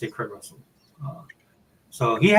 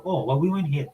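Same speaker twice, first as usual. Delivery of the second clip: casual Hawaiian Pidgin phrasing; relaxed Hawaiian Pidgin; Pidgin version; 4 semitones higher than usual. Shown as a demonstration. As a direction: drop into local Pidgin. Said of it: "We go".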